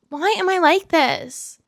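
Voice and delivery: real exasperated tears; drawn-out, weepy self-reproach; crying. Real, not acted. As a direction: sigh into a high, slow tearful wail. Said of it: "I'm crying".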